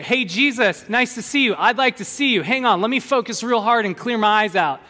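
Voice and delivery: mock blind man. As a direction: play the blind man's cheerful hello. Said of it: "the blind man doesn't say".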